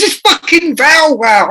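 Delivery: high, slow mock-exasperated woman's voice; hammed-up exasperated producer; fiery Irish producer. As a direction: spell it out to the idiot presenter, slowly and high. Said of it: "fiery Irish woman".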